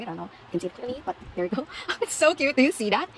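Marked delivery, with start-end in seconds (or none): 1.8-3.1 higher and louder through a laugh; giggly fan delight. Real, not acted. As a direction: squeal it out while laughing. Laughing at baby figure detail.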